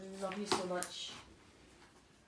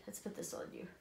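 hushed; 2 semitones lower, 11 dB quieter, faster than usual. Real, not acted. Dressing the doll, hushed.

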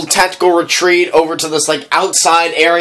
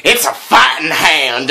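put-on southern accent. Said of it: "he says it in a southern accent".

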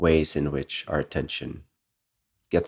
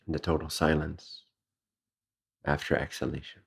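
calm, unhurried breathing guidance with long pauses; guided meditation; 4 dB quieter than usual. Real, not acted. Meditation teacher leading listeners through breathing, guided meditation. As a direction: ease them gently through each breath, slightly soft.

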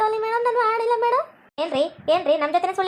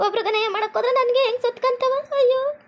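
high-pitched acted lament; self-blaming wail; 4 semitones higher than usual. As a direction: lament as a guilty, weeping wife. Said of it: "ಎದಕ್ಕೆ ಹಿಂಗ್ ಕೊರಕತ್ತಿ".

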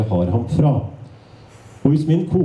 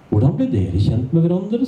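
lightly voiced curious wife; friendly, inquisitive question; curious but friendly; 5 semitones higher than usual. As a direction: ask sweetly with a hint of nosiness. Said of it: "sa hun nysgjerrig, men vennlig".

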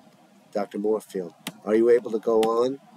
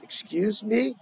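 puzzled excuse me; 9 semitones higher than usual. Real, not acted. Reader puzzled by script.

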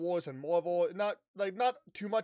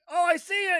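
high, louder gasp of discovery; excited discovery; 10 semitones higher, 7 dB louder than usual. Retold or imitated. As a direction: blurt it out like you just spotted the goal. Bilbo spots it from treetop.

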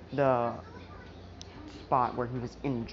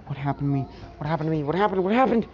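freaking out; much faster than usual. Retold or imitated. Midoriya panicking over his lost memory, rising from plain to frantic. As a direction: repeat it, getting more frantic each time. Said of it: "he starts freaking out".

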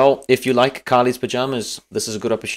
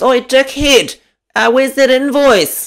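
high, loud, slow mock nag; mock nagging wife; imitating wife; 13 semitones higher, 6 dB louder, slower than usual. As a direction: call out to husband in front of suppliers, mocking shrill. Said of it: "She goes".

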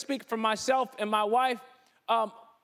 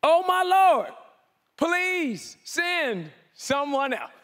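a loud, high wail on Oh my Lord, then a slow, laughing plea; a hammed-up reluctant Moses; whining Moses; 5 semitones higher, 5 dB louder, much slower than usual. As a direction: beg to get out of it. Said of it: "He says in Exodus".

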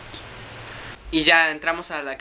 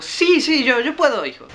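put-on high, louder old lady voice; put-on eager granny; little old lady; 10 semitones higher, 4 dB louder than usual. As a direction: insist in a granny falsetto. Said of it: "Me dijo".

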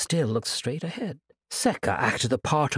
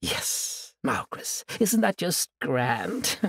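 taunting sorceress, savoring every word; gloating villainess; slower than usual. Acted. Sorceress gloating over her chained prisoner, taunting.

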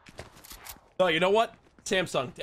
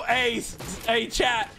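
normal talking voice

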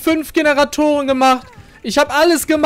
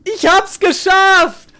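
elated drawl; 6 semitones higher, much slower than usual. Real, not acted.

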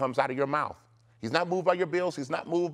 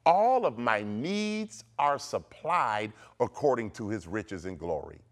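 declaration to repeat; 3 semitones lower than usual. Shown as a demonstration. Preacher giving listeners the fifth decree, declaring. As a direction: proclaim it deliberately. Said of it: "say this".

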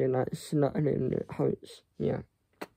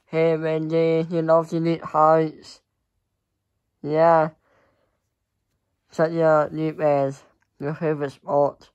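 talking to a pet; 5 dB louder than usual. Real, not acted. Talking fondly to her pet.

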